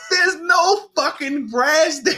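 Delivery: laughing through the rant; words breaking into laughter. Real, not acted.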